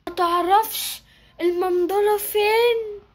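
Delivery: put-on high slow little kid's voice; shy lost child asking the way; high child's question; small child asking. Lost child asks stranger.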